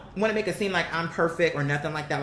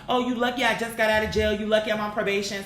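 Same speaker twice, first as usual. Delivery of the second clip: mock excuse; 3 semitones higher than usual. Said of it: "When people be afraid, they have all these excuses".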